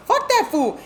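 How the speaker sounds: high-pitched dismissive quote; defiant sister. Retold or imitated. Sister brushing off the warning, imitated defiance.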